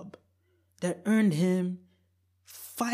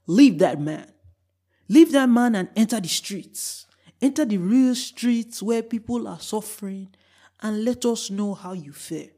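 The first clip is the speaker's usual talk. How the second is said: louder, firm order to leave; stern advice; 3 semitones higher, 6 dB louder than usual. Retold or imitated. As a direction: tell her off bluntly. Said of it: "I say to her".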